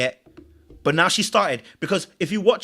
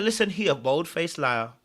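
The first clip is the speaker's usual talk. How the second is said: mock calm accusation, not shouted; cool, composed; 2 semitones lower, 4 dB quieter than usual. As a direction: imitate someone coolly stating a fact. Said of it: "she was so cool".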